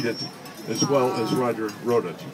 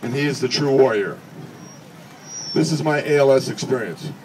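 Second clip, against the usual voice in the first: reading Roger's speech. Acted. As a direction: deliver his friend's words with measured dignity. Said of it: "I would be Roger's voice".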